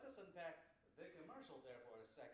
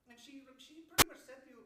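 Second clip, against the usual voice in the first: loud outburst; 7 semitones higher, 16 dB louder than usual. Real, not acted. Heated advice to movie dad.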